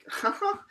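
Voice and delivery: high-pitched mock laugh; acted villainess giggle. Malescula's laugh before she speaks.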